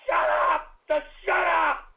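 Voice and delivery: snapping shut up at the trolls; angry yell. Acted. Ranting host yells at his trolls, angry. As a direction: bark it at the chat.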